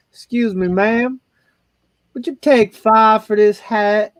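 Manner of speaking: high, slow put-on Southern belle accent; a Southern accent, high and slow, for a hat bargain. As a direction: haggle sweetly in a put-on Southern drawl. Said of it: "put on an, a southern accent".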